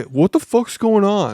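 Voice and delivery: high, slow mock confusion; bewildered guy. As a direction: lightly imitate a clueless man who's lost. Imitates the bewildered husband character.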